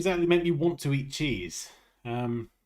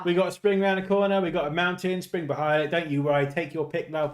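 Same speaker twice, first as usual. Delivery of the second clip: British vendor. Pretend. Same British water-seller act continues.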